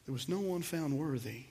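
quiet, weighty repetition; hushed repeat. Shown as a demonstration. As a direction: drop the voice for emphasis. Preacher repeats the key line.

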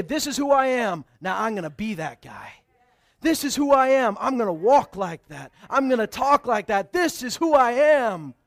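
bold, loud self-affirmation; loud declaration. Acted. Preacher voicing the believer's vow, loud and firm. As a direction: declare it like a creed. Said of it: "You gotta say".

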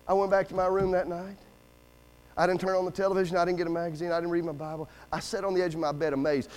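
low, soft, solemn recollection; hushed, amazed testimony; subdued awe. Real, not acted. Recalls being stunned that night.

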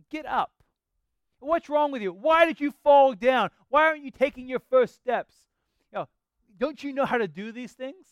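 put-on loud, high scolding of a toddler who fell; bad parent yelling. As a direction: yell down at the fallen child in mock outrage.

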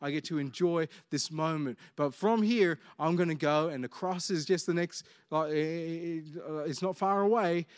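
soft, quiet, mildly anguished longing; a hint of anguish. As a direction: let a quiet ache of anguish through. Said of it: "There's anguish in the tone of Jesus".

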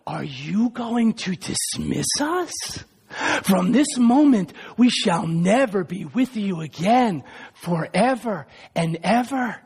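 put-on low, slow, sly voice of his old desires; tempting trifles whispering. Old temptations coaxing Augustine in the garden, low and slow. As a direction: coax him back, slowly and low.

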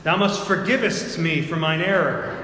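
mock Old English, loud and high; renaissance fair olde speech. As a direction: ham up archaic courtly speech. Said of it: "they start speaking in Old English to me".

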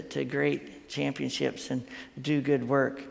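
usual speaking voice

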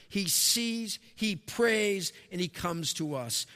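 preacher's rising proclamation of he sees, he prays; rousing recap. Real, not acted. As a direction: proclaim the points with force.

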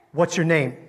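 loud, sharp demand for a name; sharp question. Retold or imitated. Preacher retelling how he questioned a stranger, sharp. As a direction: ask it sharply, like an order. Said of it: "very sharply".

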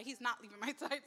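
breaking into a laugh mid-word; emotional laugh slipping out; laughing through emotion. Real, not acted.

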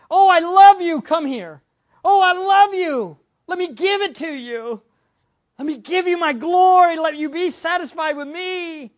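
high, tender voice of God calling his own; God's loving voice. Pretend. Preacher voicing God pleading lovingly with believers. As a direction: coax them in like a loving father.

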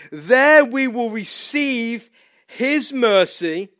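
slow, hushed reading of the verse; scripture reading. Acted. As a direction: read it gently, almost breathing it.

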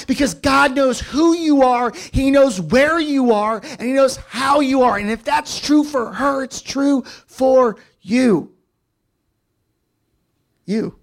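high, loud, slow climactic shout; preaching at full force. Acted. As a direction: belt the refrain out slowly to the crowd.

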